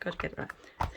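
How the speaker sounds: repeated under the breath as a whisper; whispered worry. Retold or imitated. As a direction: mutter the worry to yourself.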